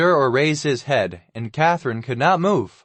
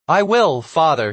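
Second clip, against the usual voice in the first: panting; 3 semitones higher, 4 dB louder than usual. Acted. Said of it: "he panted".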